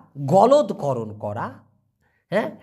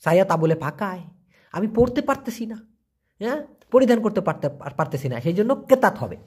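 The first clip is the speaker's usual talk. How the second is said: example speaker; 2 semitones higher than usual. Pretend. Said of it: "তো আপনি বলতে পারেন".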